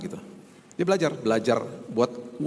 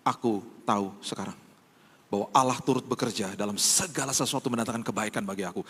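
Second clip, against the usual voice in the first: softer, lower, a hushed confession of faith; quiet sincere prayer; 3 semitones lower, 4 dB quieter than usual. Pretend. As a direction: murmur it to God like a settled prayer. Quoting future thankful prayer. (doa yang lirih dan tulus)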